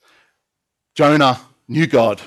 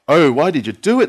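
groaning; 4 semitones higher, 5 dB louder than usual. A narrator's reading. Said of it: "they groaned".

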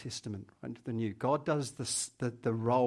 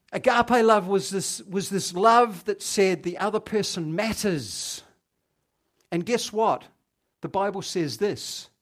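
preaching; 8 semitones higher, 9 dB louder than usual. Acted. Preacher building to full force.

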